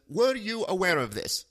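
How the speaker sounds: mock Indian-accented caller asking; imitated Indian accent. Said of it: "duplicate his voice and accent".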